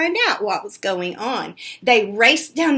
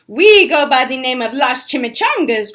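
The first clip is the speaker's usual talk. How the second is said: growl; 7 dB louder than usual. Acted. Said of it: "growled Don Diego".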